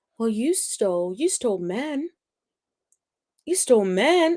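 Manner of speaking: put-on calm, quiet, measured delivery. Retelling a woman's accusation, imitating her calm, quiet delivery. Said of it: "The ones that are quiet and know how to calmly deliver it".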